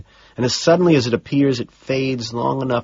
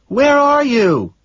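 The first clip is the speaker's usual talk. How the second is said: higher, louder secretary voice, slowing on the message; a secretary passing on messages; 5 dB louder, slower than usual. Acted. Secretary asks again.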